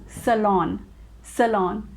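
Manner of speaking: salon said as "suh-LON"; correct salon. Shown as a demonstration. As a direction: say salon clearly with a short o. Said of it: "So it is pronounced as".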